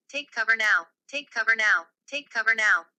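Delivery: loud, insistent repeated command; urgent warning. Acted. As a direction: hammer the order home each time. Urgent emergency alert warning repeated.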